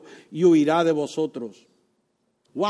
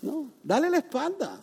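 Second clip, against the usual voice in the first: "dale la espalda" softer, gently insisted; softer reminder; 6 semitones higher, 6 dB quieter than usual. Shown as a demonstration. Preacher repeats the advice to the congregation, quieter and gentle. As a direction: ease off into a soft "dale la espalda". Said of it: "Eso es lo que yo llamo resistir".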